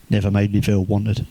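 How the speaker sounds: low, muted echo of a complaint; dropped-pitch mock disbelief; deadpan echo. Teller echoes the complaint back.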